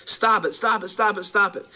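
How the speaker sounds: angry shouting. Retold or imitated. Departing listeners yelling at preacher.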